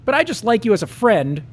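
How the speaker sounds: a hint of Patty, sweet but final; Patty letting him down. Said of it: "was all he got for his troubles".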